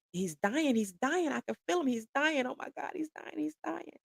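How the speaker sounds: high, rising mock-panicked chant, not shouted; retold frantic hollering. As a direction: reenact hysteria with pitch climbing, volume held back. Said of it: "screaming and hollering".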